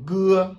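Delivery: "Ge" called out high and loud; Chinese letter G. Shown as a demonstration. Teacher drilling the Chinese letter name for students, high and clear. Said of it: "Après le G".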